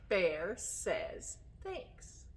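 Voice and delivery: put-on drawn-out cue for kids; slow it down so kids join in; slow prompt. Shown as a demonstration. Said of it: "you have to help a little bit".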